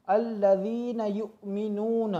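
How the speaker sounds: अल्लज़ीना युमिनून slowly, starting on a clear अ; restart with hamza. Shown as a demonstration. Teacher showing how to restart after a stop. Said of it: "हमज़ा पर ज़बर लगा देंगे".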